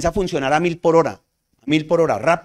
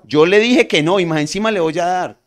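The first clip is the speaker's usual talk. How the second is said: loud scolding dad, pitched up at the start; rough, stern father; 3 semitones higher, 7 dB louder than usual. Acted. Father to his fallen child, roughly scolding. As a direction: tell the child off with force. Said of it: "frente al papá ve como esa rudeza".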